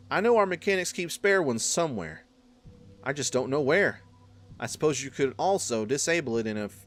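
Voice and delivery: put-on southern accent. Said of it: "Man, southern accents".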